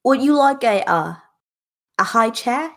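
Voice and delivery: patronizing offer to a tot; talking to a little kid. Acted. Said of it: "to talk to a little kid".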